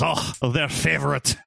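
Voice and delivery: hammed-up French waiter accent; bad French accent. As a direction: imitate a terrible French accent. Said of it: "doing the worst French accent ever".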